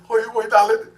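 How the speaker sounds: loud, high, gushing greeting; hammed-up high, loud darling greeting; Lisa Scott style. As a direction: gush it out like a bubbly socialite. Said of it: "Lisa Scott style".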